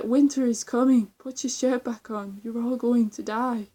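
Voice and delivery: lightly hammed-up dramatic warning; Game of Thrones impression. Vlogger retelling a funny live chat impression, mock-grave warning. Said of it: "he does an impression of him".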